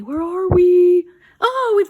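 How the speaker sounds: high, loud, hurried exclamation; excited rush. Real, not acted. Hurrying to finish for viewers, excited and high. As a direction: caught out by the clock, voice jumps up.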